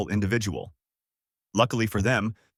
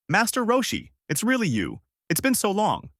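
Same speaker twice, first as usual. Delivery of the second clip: much higher, delighted reunion; hearty greeting; 11 semitones higher than usual. A narrator's reading. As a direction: greet an old teacher with joy. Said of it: "greets him heartily".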